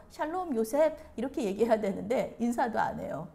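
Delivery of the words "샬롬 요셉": higher, louder acted greeting; friendly greeting. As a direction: hail a younger brother by name. Models the greeting brothers withheld.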